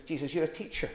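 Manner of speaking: puffed-up, condescending scholar talking down; smug show-off voicing superior learning; mock smug lawyer. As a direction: play the pompous expert sneering at Jesus. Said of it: "he says to Jesus".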